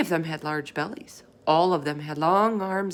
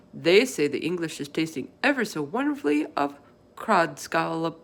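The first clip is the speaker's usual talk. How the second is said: BFG voice. Acted. Giant explaining to Sophie what the others do, folksy. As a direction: play the big friendly giant, chatty and earnest.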